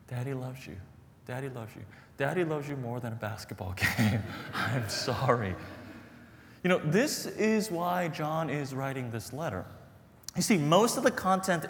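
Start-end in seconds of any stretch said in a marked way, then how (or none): 0.1-5.5 reassuring. Retold or imitated. Father reassuring crying son.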